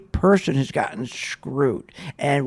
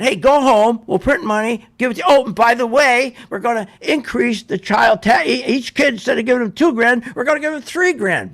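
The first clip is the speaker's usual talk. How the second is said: high, loud mock of a giveaway pitch, higher and louder; hammed-up politician promising free money; 5 semitones higher, 3 dB louder than usual. Mocking the government's giveaway pitch.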